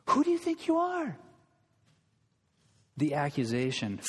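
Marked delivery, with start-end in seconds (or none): 0.1-1.2 even higher, quicker sarcastic echo; sneering repeat. Retold or imitated. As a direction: throw it back as a sneer. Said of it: "bony fingers in Jesus' face, they say this".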